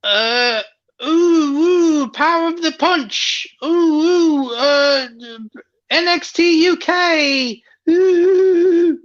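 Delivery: a put-on British accent as a wrestling meme. The speaker, told to do a British accent, plays the wrestling meme in a hammed-up British accent. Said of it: "I want you to do a British accent".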